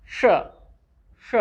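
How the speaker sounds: sh hushed out alone, drawn steady; sh sound demo. Shown as a demonstration. Teacher modelling the digraph sound for kids. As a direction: model the sh for the class. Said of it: "S H will be pronounced as".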